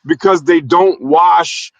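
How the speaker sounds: put-on West African accent. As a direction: speak in a Nigerian-sounding West African accent. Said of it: "How was my West African accent?".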